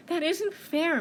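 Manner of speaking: high-voiced mouse protest. Mouse objecting to bear, high protest. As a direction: pipe up against the big bear.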